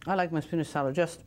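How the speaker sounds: words muffled by a mouthful of food; talking with mouth full. Real, not acted. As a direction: chew and talk through a full mouth. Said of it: "talk with your mouth full".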